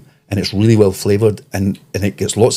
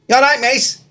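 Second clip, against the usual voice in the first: high, exaggerated Scouse woman; hammed-up falsetto Scouse, second attempt; Scouse accent; slower than usual. Imitating chippy girl after friends' teasing, high hammed-up Scouse accent. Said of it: "Sorry, I'll try again".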